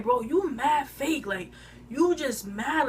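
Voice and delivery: drawn-out retold exasperation; heated accusation. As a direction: stretch the words out, calling her out. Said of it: "that got me even more heated".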